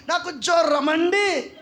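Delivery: mock sick excuse. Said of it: "నాకు చెప్పడం కోసం".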